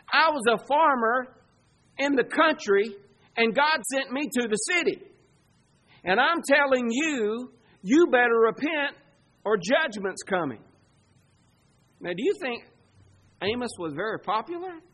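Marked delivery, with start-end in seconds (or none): 0.1-10.6 raised, emphatic preaching voice; farmer prophet's warning. Acted. Country farmer sent to warn the city, emphatic warning. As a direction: press the warning home, pitched up.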